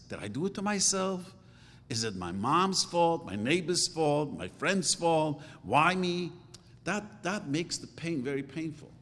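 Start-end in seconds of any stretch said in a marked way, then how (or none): 0.1-6.3 higher, pleading run of questions, like someone asking why this happened to them; anguished self-questioning. Retold or imitated. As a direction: voice the despair of someone who blames everyone. Inner voice of someone suffering.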